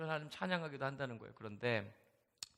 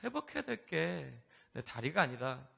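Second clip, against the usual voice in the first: tearful confession. Retold or imitated. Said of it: "막 울기 시작한 거예요".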